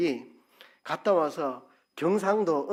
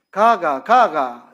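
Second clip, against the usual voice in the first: louder Gyeongsang intonation "가가, 가가"; 3 semitones higher, 10 dB louder, much slower than usual. Shown as a demonstration. Preacher demonstrating dialect, a loud Gyeongsang "가가". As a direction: sing the "가가" tones the Gyeongsang way. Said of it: "제가 해볼게요".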